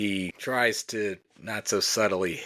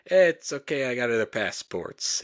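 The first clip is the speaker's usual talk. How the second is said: mock sly reassurance; 4 semitones higher than usual. Helper shrugging off the fled tourists, mock Italian. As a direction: brush it off like a shifty helper. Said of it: "Horatio Sanz says".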